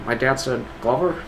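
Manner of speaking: lightly put-on impression, ending in laughter; a hint of a character voice; Glover. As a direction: attempt a light mimicry, about to crack up. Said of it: "All right, do Glover".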